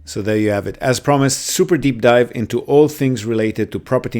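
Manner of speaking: steady outro read to listeners; podcast outro. Acted. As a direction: wrap up the episode, then plug the sponsor.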